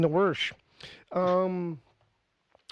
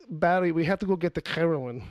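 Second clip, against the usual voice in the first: mock Chechen accent. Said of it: "he puts K's on where there's supposed to be an H".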